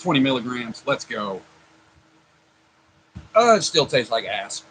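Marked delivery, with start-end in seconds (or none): 3.4-4.6 talking with candy in mouth; chewing something sour while talking; eating sour candy. Real, not acted. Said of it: "it's so sour".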